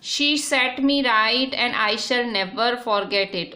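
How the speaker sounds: slow, deliberate reading of the English text; slow reading aloud. Shown as a demonstration. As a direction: read each word out slowly for the class. Rereads English text slowly.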